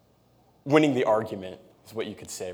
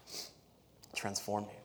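transformed drawn out slowly and quietly; soft and slow; 3 semitones lower, 16 dB quieter, much slower than usual. Shown as a demonstration. Preacher repeating his point to the church, soft and slow. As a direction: let "transformed" sink in, hushed and unhurried. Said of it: "and it transformed me".

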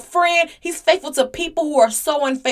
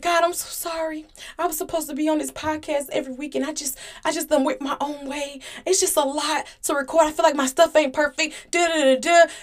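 mock crying prayer; 2 semitones higher, 4 dB quieter than usual. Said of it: "when I go to God crying".

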